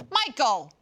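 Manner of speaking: mock holler for the culprit; imitated calling out. Imitating Denise heard from upstairs, exasperated call. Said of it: "you hear Denise go".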